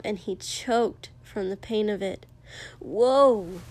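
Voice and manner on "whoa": sudden louder "whoa"; hissed alarm. A narrator's reading. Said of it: "the man hissed".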